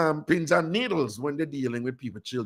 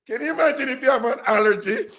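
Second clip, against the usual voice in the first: real giggles through the question; can't keep a straight face; laughing; 6 semitones higher, faster than usual. Real, not acted. Host cracking up telling listeners the story, laughing.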